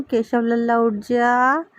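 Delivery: slow, loving call to wake; tender waking call. Real, not acted. Mother waking her Keshav idol, slow tender call. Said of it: "मैं बड़े प्यार से ही अपने कान्हा को उठाती हूँ".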